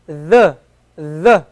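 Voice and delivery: Arabic dal, tongue tip against the teeth. Shown as a demonstration. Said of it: "This is the dal that we're looking for".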